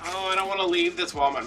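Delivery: high, loud mock complaint; retold reluctant protest. Retold reluctance to leave store.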